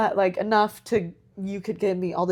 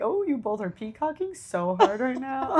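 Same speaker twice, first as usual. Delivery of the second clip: higher-pitched, laughing jibe; playful retold ribbing; amused teasing; 4 semitones higher than usual. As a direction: tease them with a laugh in the voice. Teasing aside about the flirting pair.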